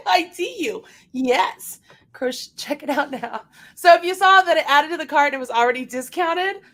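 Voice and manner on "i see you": high giggle into words; giggling. Real, not acted. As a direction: laugh while talking to the pup. Laughing at the dog.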